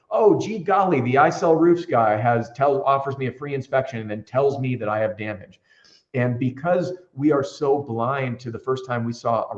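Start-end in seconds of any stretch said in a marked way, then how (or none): 0.1-5.6 mock gullible homeowner. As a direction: play a naive homeowner being sold to.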